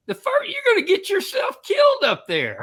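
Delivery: high, loud holler from below; shouted warning. Retold or imitated. Instructor warning skier on the chairlift, shouting up. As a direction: imitate yelling up to someone in danger.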